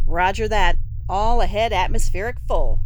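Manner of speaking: calling out the order firmly; loud call. Acted. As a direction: confirm the order over the engine noise. Engine order shouted on bridge.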